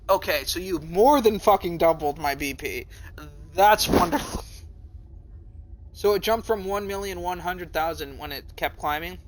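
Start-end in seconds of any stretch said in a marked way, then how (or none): 0.1-4.4 sarcastic wonder. Acted. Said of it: "And I'm like".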